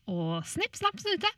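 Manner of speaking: playful, sing-song closing rhyme; storybook ending. A narrator's reading. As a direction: finish the tale with a flourish. Fairy tale closing formula.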